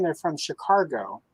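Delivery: local Chicago accent. Shown as a demonstration. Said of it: "what's ironic".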